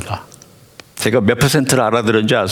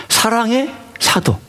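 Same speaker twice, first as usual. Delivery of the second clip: slow emphasis; 8 semitones higher, slower than usual. Shown as a demonstration. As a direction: savour 사랑의 사도 slowly.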